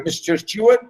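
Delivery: lightly mocking, with a questioning rise; ironic mockery. Keeney laughing at his servant, lightly sarcastic. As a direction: address him with mock politeness, lifted in pitch. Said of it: "being ironical and sarcastic here".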